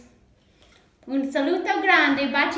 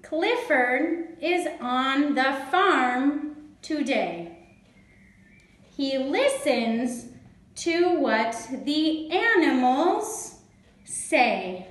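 put-on deliberate children's story narration; reading to children. A narrator's reading. Reads aloud to children.

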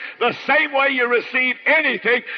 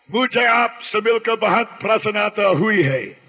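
Hindustani phrase; 2 semitones lower than usual. Shown as a demonstration. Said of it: "in Hindustani, it would be a very polite thing to say".

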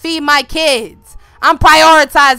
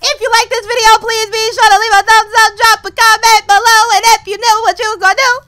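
high outro read; 8 semitones higher, 6 dB louder than usual. Acted. Outro pitch.

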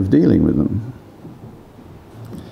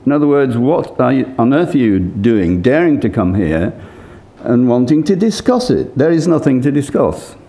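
indignant retort; 4 semitones higher than usual. Retold or imitated. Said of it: "very indignantly".

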